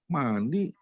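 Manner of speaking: put-on high, slow child's voice; high, slow voice of a puzzled child; child asking. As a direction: imitate his little child asking innocently. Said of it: "anak saya sampai bilang".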